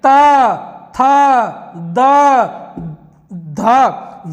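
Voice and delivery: slow isolated त, थ, द, ध, each alone; sounding out letters. Shown as a demonstration. Teacher sounding dental letters for pupils. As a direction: give each letter its own breath. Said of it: "नहीं है".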